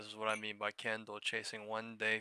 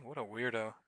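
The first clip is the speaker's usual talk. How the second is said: ordinary talk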